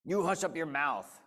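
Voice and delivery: loud angry howl. Acted. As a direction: howl it down at him. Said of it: "howled the mighty King Yertle".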